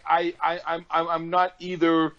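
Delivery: tipsy, laughing, tripping over "I". Real, not acted. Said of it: "I'm so drunk right now".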